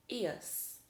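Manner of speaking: eos said as "ee-us"; demonstrated suffix sound. Shown as a demonstration. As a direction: say eos like the end of studious. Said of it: "These words will sound like eos".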